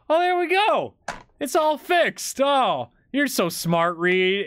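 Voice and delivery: put-on high, slow delighted old man voice; high old grandpa. Grandpa delighting in the fix, praising his grandson, high and slow. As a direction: ham up grandpa's relieved praise. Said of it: "he goes".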